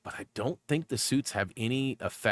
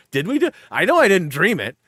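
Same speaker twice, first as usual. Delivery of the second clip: high mock question; 8 semitones higher, 9 dB louder than usual. Retelling quarrel.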